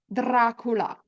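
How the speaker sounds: Dracula with a tapped Italian r; Italian rolled r. Shown as a demonstration. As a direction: Dracula said with the tongue tip at the front. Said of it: "say Dracula in Italian".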